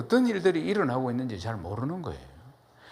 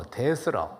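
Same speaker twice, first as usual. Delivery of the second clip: lightly imitated Jeolla speech; Jeolla dialect; slower than usual. Shown as a demonstration. Preacher comparing dialects for the congregation, Jeolla version. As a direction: say it with a Jeolla lilt. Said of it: "전라도 말로".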